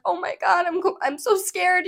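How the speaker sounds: retold scared plea, pitched high; scared, crying. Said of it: "I was, like, scared. I was, like, crying".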